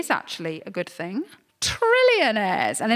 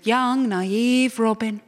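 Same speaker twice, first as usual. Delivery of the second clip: patronising; much slower than usual. Acted. Patronising the naive co-host.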